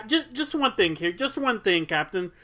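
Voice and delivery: hesitant, repetitive sleuth circling the puzzle; bad Columbo. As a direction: stammer through it like a politely nagging detective. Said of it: "My bad Columbo impression".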